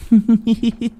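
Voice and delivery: high haunting giggle; eerie ghost giggle. Acted. Ghost girl laughs at the frightened pair, eerie giggle.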